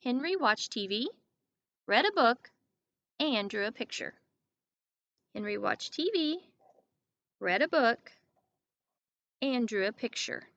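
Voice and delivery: breaks after T V and after book; pausing at commas. Shown as a demonstration. Teacher modeling comma pauses. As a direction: pause at each comma in the list. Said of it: "Let's put a pause".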